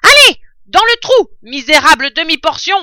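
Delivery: voix de brute, très aiguë et très forte; ordre brutal. Acted. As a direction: aboie l'ordre au nabot. Bin rudoie Bunz. (Bin ordonne brutalement à Bunz)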